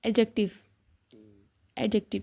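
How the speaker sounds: एडजेक्टिव said e-jective, no d sound; silent d. Shown as a demonstration. Teacher drills MCAT viewers on silent d pronunciation. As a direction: repeat एडजेक्टिव with the d dropped. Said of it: "डी silent है".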